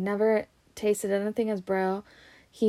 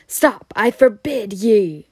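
panicked yell; 9 dB louder, slower than usual. A narrator's reading. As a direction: yell to stop him in panic. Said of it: "yelled Uncle Vernon in panic".

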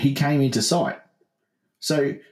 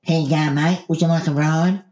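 higher-pitched mock woman driver; friendly driver's offer; 4 semitones higher than usual. Woman driver offering stranger a ride, higher acted voice. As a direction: offer it lightly, voice raised in pitch. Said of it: "so she's gone".

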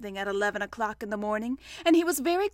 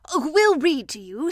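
higher, louder, cheerful offer; 4 semitones higher, 7 dB louder than usual. A narrator's reading. Rabbit offering to read to Pooh, cheerful. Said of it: "said Rabbit cheerfully".

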